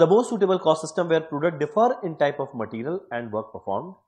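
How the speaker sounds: reading a quiz question slowly and deliberately. Acted. Teacher reads a quiz question to students, slow and deliberate. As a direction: spell out each word of the question for the class.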